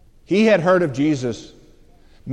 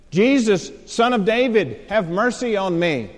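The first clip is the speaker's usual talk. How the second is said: raised, pleading call for mercy; crying out; 5 semitones higher, 4 dB louder than usual. Retold or imitated. Blind man calling to Jesus for mercy, crying out. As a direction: call out high and loud. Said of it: "he begins to cry out".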